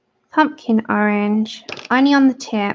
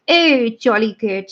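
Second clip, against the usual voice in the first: lightly mocking posh English accent. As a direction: put on a hint of upper-class English. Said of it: "really, really posh".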